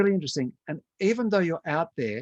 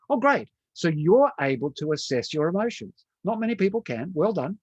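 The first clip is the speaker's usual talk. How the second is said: mock delight; 5 semitones higher than usual. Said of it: "I said".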